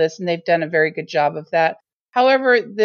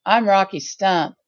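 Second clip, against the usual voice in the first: laid-back hippie. Retold or imitated. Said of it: "such a cool hippie, man".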